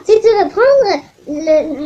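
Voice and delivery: put-on drawn-out, loud Russian-accented captain; captain in a slow Russian accent. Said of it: "pourquoi je fais un accent russe?".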